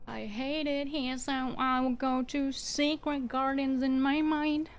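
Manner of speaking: lightly hammed wistful escape line; mock dreamy quote. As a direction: float away into a daydream while saying it. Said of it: "quoting a dreamy line".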